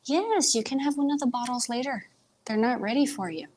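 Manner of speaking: lilting aside to a puppy, starting high; talking to puppy. Real, not acted. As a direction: gently put the puppy off in a pet-talk lilt. Turns aside to talk to puppy.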